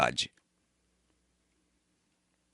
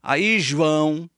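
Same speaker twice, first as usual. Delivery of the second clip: ordinary talk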